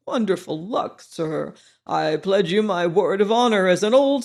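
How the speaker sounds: a hint of a rough barrack-room veteran urging him on; hoarse old soldier. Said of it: "a hoarse voice behind me cried".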